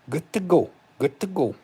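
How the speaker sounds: high, loud jubilant call; excited cheer. Real, not acted. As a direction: shout it out in joy. Celebrating Lane Kiffin news.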